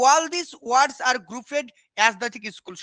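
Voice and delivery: very slow, word by word dictation; slow dictating teacher. Shown as a demonstration. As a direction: spell it out slowly for the students to copy. Teacher reading definition aloud.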